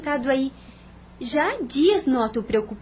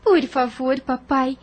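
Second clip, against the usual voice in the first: louder and higher, begging her father; eager pleading; 5 semitones higher, 6 dB louder than usual. Acted. Daughter begs to work with father.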